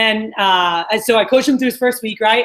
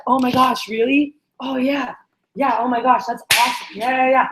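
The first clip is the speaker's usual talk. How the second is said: imitating excitement. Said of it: "get excited when you give us a deal".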